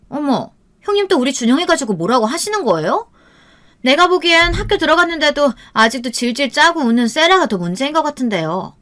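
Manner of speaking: high-pitched, insolent sister-in-law; brazen talking back. A narrator's reading. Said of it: "앞에서 큰 소리를 치더군요". (싸가지 없이 대드는 높은 목소리)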